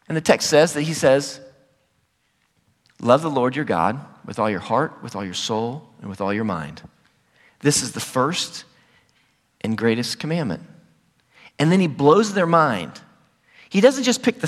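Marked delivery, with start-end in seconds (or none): 3.0-10.6 low, hushed recital of scripture; scripture quotation. Retold or imitated. Quoting Jesus' words from scripture.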